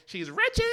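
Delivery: "wretched" said like ratchet, rising; "She's wretched" with a Southern slur; New Orleans wretched. Shown as a demonstration. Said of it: "if you say it just like how they".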